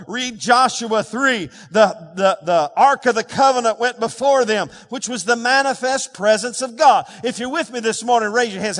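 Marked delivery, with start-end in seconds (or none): 0.1-7.0 emphatic, chant-like pulpit cadence; insistent, punched preaching delivery; forceful preaching. Real, not acted. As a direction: drive each phrase home to the congregation.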